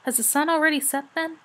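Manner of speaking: lightly voiced sleepy dragon; a hint of drowsy hoarseness; hoarse murmur. A narrator's reading. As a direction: ask it as if just woken. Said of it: "he murmured in a rather hoarse voice".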